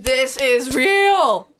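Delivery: put-on slow dragged-out drunk line; mock drunk insistence. Friend echoing the drunk plea, slow mock drunk. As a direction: drag it out like a drunk. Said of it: "echoing the drunk quote".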